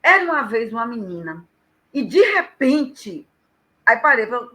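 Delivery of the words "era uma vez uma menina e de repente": storyteller's tease, slowing on "de repente"; story opening. Shown as a demonstration. Storyteller opening a loop for the listener, suspenseful story opening. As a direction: draw out "de repente" and leave it hanging. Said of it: "fala assim".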